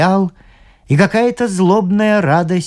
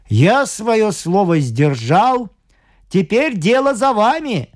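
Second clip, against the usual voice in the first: ratcatcher's demand; 5 semitones higher than usual. Acted. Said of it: "сказал крысолов".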